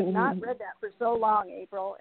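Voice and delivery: holding back tears, talking fast; emotional. Real, not acted. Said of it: "getting so emotional".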